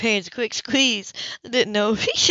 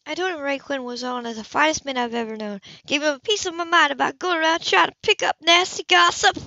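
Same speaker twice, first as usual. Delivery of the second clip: higher and louder, huffy as she tells it; indignant older woman; 8 semitones higher, 5 dB louder than usual. Acted. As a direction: bristle with a touch of mock outrage.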